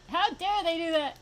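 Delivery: high, loud indignant imitation; exaggerated affronted protest; mock outrage. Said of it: "They're like".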